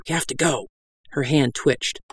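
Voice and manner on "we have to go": hushed, urgent prompt; urgent whisper. Acted. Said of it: "I whispered urgently".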